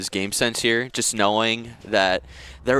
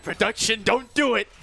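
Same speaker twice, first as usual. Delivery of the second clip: pleading; 12 semitones higher than usual. Real, not acted. Begging team not to lose.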